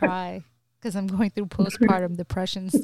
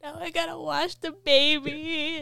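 tearful, high-pitched complaint; real tearful retelling; 5 semitones higher than usual. Real, not acted. Mother overwhelmed by washing juice off baby, real tearful retelling. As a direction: whine it close to tears. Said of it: "I literally cried, like, retelling that story".

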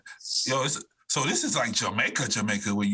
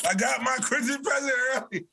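shouting; 9 semitones higher than usual. Acted. Repeats line, shouted.

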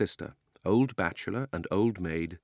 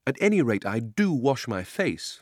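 prim retort; 4 semitones higher, 3 dB louder than usual. Acted. Polly scolding grubby boy.

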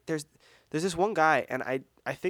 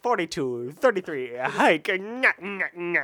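sing-song taunting; 4 semitones higher, 6 dB louder, slower than usual. Acted. Acted football snap call.

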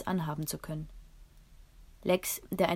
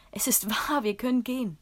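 breathless higher whisper of joy; excited whisper; 5 semitones higher, 4 dB louder than usual. A narrator's reading. Girl repeats the news to her father in an excited whisper. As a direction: hush it, still thrilled. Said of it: "bis ich schließlich doch herausplatzte".

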